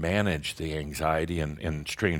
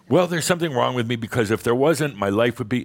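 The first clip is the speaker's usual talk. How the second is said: a touch of indignant protest, higher and louder; mock protest; 5 semitones higher, 4 dB louder than usual. Tad protesting to his guide that something is wrong, mock indignant. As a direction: argue back like a frustrated student. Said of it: "Tad arguing back".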